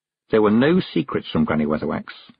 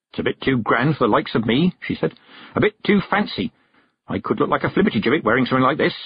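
statement with "this" curled up like a question; higher pitch, lifting through "wearing something like this"; half-asking, "this" left hanging as a question; 5 semitones higher, faster than usual. A narrator's reading. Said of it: "it had a curl like a question".

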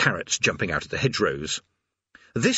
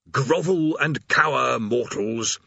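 menacing demon; 3 semitones higher, slower than usual. Acted. Demon threatens mortals.

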